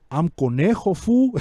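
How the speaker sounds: lightly voiced gangster intro with a pitch jump on fool; a hint of a hammed-up cholo villain; mock menacing villain. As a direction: play a would-be scary boss, not scary at all. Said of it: "the bad guy that comes in".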